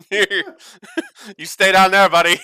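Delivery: high, loud yell through laughter. Acted. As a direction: call down loudly to a creature below. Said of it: "Here's you yell out".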